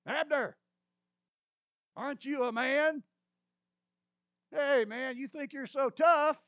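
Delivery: loud, high taunting yell; mocking. David taunting Abner across the valley, loud mockery. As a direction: jeer at him like a schoolyard bully, loud. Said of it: "David replies with a tone of mockery".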